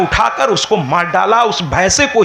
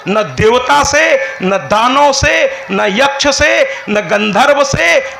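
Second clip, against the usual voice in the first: slow listing of all he must defeat; slow emphatic list; 3 semitones higher, slower than usual. Acted. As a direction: list them one by one, building. Demon lists whom he must beat.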